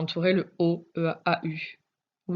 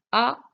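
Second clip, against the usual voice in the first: "Arrosoir" in separated syllables, the first high and loud; découpé en syllabes; 5 semitones higher, 6 dB louder, much faster than usual. Shown as a demonstration. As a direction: break "Arrosoir" into a, ro, soir with gaps. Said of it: "J'entends le O dans la deuxième syllabe". (« Arrosoir » détaché syllabe par syllabe, début appuyé)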